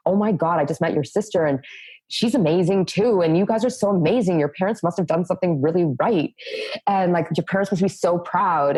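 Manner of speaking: high, gushing fan voice; lightly voiced excited fan; gushing admirer. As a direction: imitate people raving about the family. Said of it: "come back to either her, uh, or me and say".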